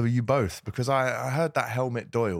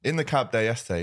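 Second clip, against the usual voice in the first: normal talking voice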